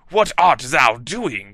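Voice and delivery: slow, lightly voiced dark lord; a hint of a menacing wizard calling; calling out to Snaketail; Voldemort. A narrator's reading. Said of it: "called Voldemort".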